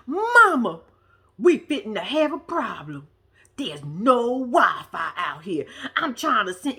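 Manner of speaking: lightly imitated girl's accent, drawn-out complaint; Molly Ray's accent. Daughter complaining to mother about no Wi-Fi, imitated accent. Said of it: "I love her accent".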